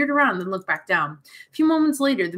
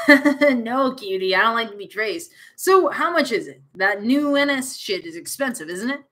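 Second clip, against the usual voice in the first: Taryn voice; 3 semitones higher, 4 dB louder than usual. Acted. Taryn character again.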